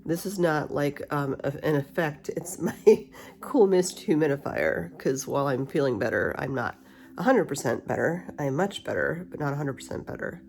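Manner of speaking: talking with a retainer in; wearing a retainer. Real, not acted. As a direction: retainer in the mouth, slightly blocked speech. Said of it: "I have my retainer in".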